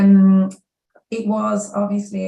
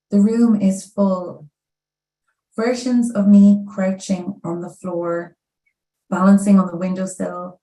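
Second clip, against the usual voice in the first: measured recital, pausing after each short line; poetry reading; 3 dB louder than usual. Acted. Poet reading a poem about selfies to an audience, measured recital. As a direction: set out each line on its own.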